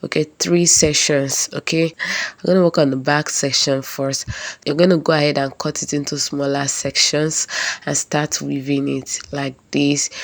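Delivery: hoarse, stuffy voice from a cold; talking through a head cold. Real, not acted. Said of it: "pardon my voice. I have cold".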